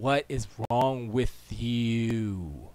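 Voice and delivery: loud, slow, drawn-out mock outrage; acted exasperated scolding; indignant. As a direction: stretch every word in loud, put-on disbelief. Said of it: "I'd be like".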